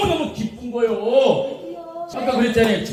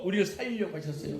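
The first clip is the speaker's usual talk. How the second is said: much softer, fast, trailing off; an intimate aside to the congregation; hushed; 2 semitones lower, 12 dB quieter, faster than usual. Acted. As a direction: drop almost to a murmur. Preacher drops the voice.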